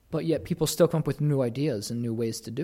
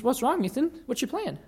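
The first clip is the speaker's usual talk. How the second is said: little sister; 11 semitones higher than usual. Retold or imitated. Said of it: "She says".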